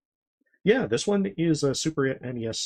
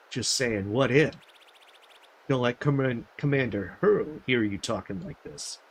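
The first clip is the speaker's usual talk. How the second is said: lightly voiced jittery guards, a touch higher; nervous gremlin guards; 3 semitones higher, 6 dB louder than usual. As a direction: play the spooked sentry trading whispers of rumor. Gremlins chat at night.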